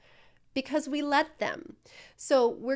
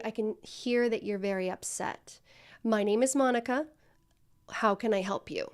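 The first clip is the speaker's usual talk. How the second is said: softer, lower validating greeting; low calm voice; 2 semitones lower, 3 dB quieter than usual. Shown as a demonstration. Coach shows the trainee the calm phone greeting, soft and low. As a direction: bring the energy to a calm center. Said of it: "you have to get low with your voice".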